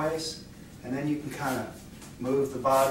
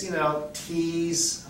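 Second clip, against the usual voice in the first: playful tease; 4 semitones higher, much slower than usual. Shown as a demonstration. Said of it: "a little tease".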